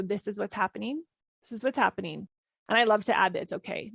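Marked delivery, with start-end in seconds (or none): 0.0-2.3 calm acceptance. Shown as a demonstration. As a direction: let it go and simply acknowledge it.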